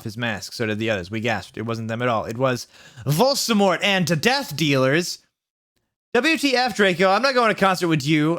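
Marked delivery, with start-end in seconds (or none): 6.1-8.4 high, louder indignant yell; hammed-up goth rage; mock angry shout. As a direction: snap at him like a furious teen. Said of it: "I shouted angrily".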